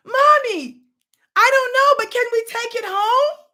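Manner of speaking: put-on high, loud begging child; pleading little boy. Boy begs mother to take it home, high child voice. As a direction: beg to keep it.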